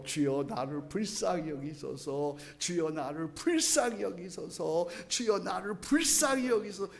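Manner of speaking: a blind beggar calling out to Jesus, pleading; beggar's plea. Retold or imitated. Blind beggar Bartimaeus crying out.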